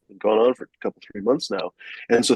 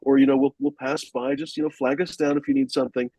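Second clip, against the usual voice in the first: a lightly voiced, eager-to-help officer; mild imitation of a friendly cop reassuring a tourist; helpful cop; 4 semitones higher than usual. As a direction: offer help like a genuinely kind policeman. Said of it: "he's like".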